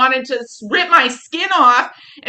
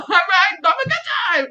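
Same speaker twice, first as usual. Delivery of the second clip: much higher, laughing mock brag; mock boast; 8 semitones higher than usual. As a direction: sell herself as the party girl, ironic. Mock boast about her drunk self.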